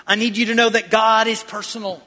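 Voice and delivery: shouted emphasis. Real, not acted. Preacher drives the point home.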